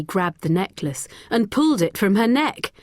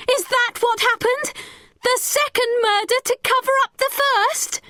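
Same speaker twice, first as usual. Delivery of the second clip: high, demanding question; angry girl confronting the boy; accusing. A narrator's reading. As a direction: press him for the truth. Becky accuses Richard too.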